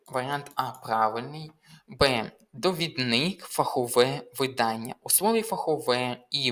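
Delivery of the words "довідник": довідник read with stress on last syllable НИК; misplaced stress. Shown as a demonstration. Teacher reading the faulty test option, misplaced stress. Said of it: "Неправильно наголос стоїть у слові до".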